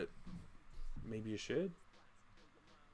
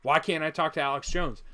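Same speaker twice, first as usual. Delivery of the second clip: louder, lightly put-on Southern accent; 3 semitones higher, 7 dB louder than usual. Arguing about talking to Alex Jones, mock Southern accent. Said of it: "I'm doing a Southern accent".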